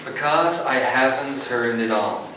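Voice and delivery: slow, amused retelling of the punchline; amused repeat. Real, not acted. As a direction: savour the joke, slowly. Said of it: "laughs, repeats punchline".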